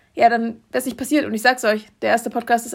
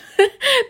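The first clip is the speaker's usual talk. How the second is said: high laugh; 13 semitones higher, 5 dB louder than usual. Real, not acted. Laughs at her own joke.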